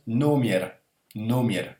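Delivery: careful "nomier" with a gliding ye; Russian word read out. Shown as a demonstration. Teacher reads the N example word, careful demonstration. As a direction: sound out "nomier" clearly, o then ye. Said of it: "Ce qui nous donne".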